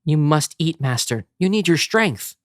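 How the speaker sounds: coaxing servant, rising pitch; sly servant. Acted. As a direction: coax him like a creepy nurse. Renfield feeding Dracula.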